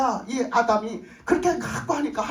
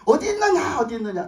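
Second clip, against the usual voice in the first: loud rising call of Adam's name; God calling out; 2 semitones higher, 4 dB louder than usual. Acted. Preacher voicing God calling loudly to hiding Adam. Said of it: "하나님이 자꾸 부르시는 거예요".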